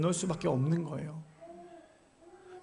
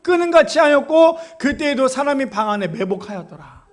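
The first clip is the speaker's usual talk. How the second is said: loud, high, ringing Bible recitation; declaimed scripture reading; 7 semitones higher, 8 dB louder than usual. Acted. Preacher reads the Samson story to the congregation, loudly declaiming. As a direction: proclaim the verse at full force, crying out the quote.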